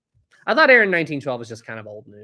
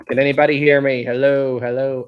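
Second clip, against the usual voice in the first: calling out; 7 dB louder than usual. Pretend. Calling out into silent stream.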